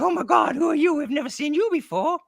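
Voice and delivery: very high, loud squeal of disbelief; hammed-up fooled bystanders; mock astonishment. Onlookers failing to recognise the masked man, mock astonishment. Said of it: "And they're like".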